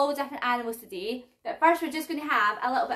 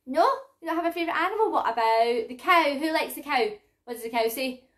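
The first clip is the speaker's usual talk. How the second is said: bright sing-song for little ones; reading to a toddler. Acted. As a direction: talk to toddlers, lively and clear. Toddler music class presenter voice.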